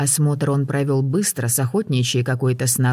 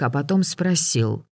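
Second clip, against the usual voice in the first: usual speaking voice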